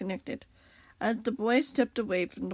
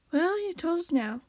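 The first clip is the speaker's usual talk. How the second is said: higher-pitched gentle reassurance; gentle, reassuring; 7 semitones higher than usual. A narrator's reading. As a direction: reassure a friend kindly. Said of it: "sounding gentle and reassuring".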